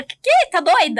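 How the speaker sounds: "Que?" bem agudo e mais alto; espanto indignado. Acted. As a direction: reagir chocada a um insulto. Resposta ao ataque encenado. (amiga reagindo ao insulto, espanto indignado)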